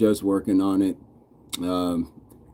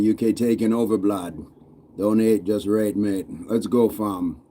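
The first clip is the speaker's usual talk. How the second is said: lightly put-on British-Jamaican slang; British-Jamaican accent. Streamer playing to UK viewers, amateur British-Jamaican accent. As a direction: try a rough Brit-meets-Jamaican accent. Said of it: "it's a bit of Brit".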